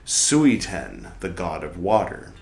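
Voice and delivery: measured, deliberate reading of a scholarly text; formal read-aloud. Acted. Reader reciting a dense book passage aloud, formal reading. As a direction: read it out clearly, pausing between phrases.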